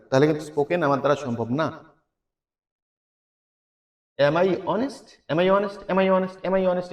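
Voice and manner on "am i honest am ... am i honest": "Am I honest" repeated evenly as a drilled question; repetition drill. Shown as a demonstration. Teacher drills learners to loosen the tongue, repetitive questioning. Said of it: "এভাবে বলে বলে জিহ্বার জড়তা কাটিয়ে ফেলতে হবে".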